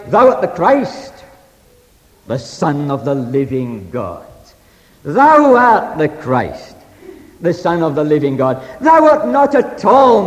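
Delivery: dogmatic declaration. Retold or imitated. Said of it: "he said, without any hesitation, in the most dogmatic way".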